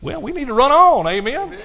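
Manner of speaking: high, loud exhortation; excited. Real, not acted. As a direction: rouse the congregation. Preacher exhorting congregation.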